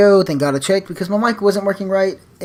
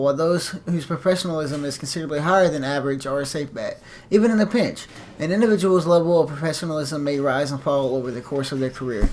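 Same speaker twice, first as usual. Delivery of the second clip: instructor voice. Shown as a demonstration. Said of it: "instructor voice".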